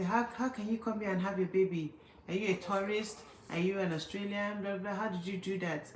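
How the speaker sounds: imitating critics. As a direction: mimic nosy commenters firing questions. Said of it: "how they were just criticizing".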